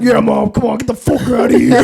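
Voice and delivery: mild mock protest to mom; retold exasperated son. Son retells brushing off hovering mom, mildly exasperated. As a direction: shoo mom away, half in jest. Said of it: "I was like".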